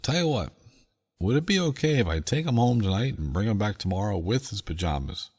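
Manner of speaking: dad's voice. Retold or imitated. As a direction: play the dad easing out of the prank.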